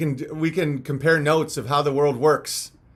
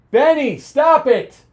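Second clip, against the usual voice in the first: high, loud, drawn-out call to stop Benny; real scolding shout; 9 semitones higher, 6 dB louder, slower than usual. Real, not acted.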